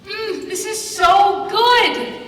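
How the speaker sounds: loud, slow, eating while talking; mouth full. Real, not acted. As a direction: talk through a mouthful of lunch. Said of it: "Is this Subway?".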